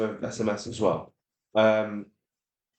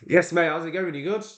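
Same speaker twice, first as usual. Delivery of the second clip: high, upbeat mate-to-mate greeting; match a cheerful caller's energy; chirpy, raised-pitch phone hello; matching happy energy; 7 semitones higher than usual. Shown as a demonstration. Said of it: "match their energy, okay? If they're happy".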